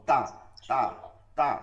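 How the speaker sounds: "তা" said thin and light; light, unrounded "তা". Shown as a demonstration. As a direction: keep "তা" thin, tongue flat, no heaviness. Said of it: "চিকন, চিকন".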